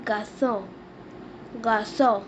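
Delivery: "garçon" as "gar-SON" with a nasal end; teacher modelling "garçon"; French pronunciation. Shown as a demonstration. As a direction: say "garçon" the French way, stress on the last syllable. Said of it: "We say boy in French".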